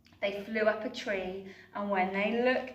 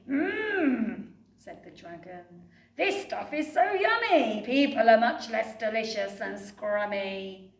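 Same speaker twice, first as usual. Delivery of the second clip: delighted dragon; 5 dB louder than usual. Acted. Dragon enjoying the gloop.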